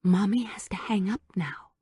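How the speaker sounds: unvoiced hushed words; whisper. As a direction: whisper a gentle goodbye. Whispering into the phone.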